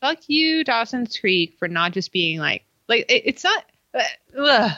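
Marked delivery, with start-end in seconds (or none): 0.0-1.6 exasperated outburst. Real, not acted. Venting at the show.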